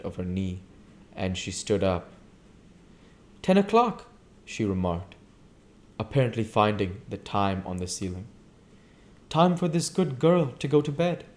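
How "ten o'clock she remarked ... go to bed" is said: lightly voiced young woman. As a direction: tease the ending. Jordan announcing bedtime.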